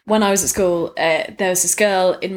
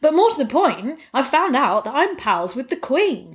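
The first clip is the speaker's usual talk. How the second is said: much higher excited reveal; thrilled, higher announcement; gleeful; 7 semitones higher than usual. Real, not acted. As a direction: announce it like great news.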